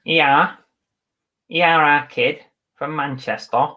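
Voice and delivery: put-on a half-hearted try at a Manchester accent, drawn out; bad Manchester accent. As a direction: fumble a Manchester 'our kid' voice for fun. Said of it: "I should be able to do a Manchester accent".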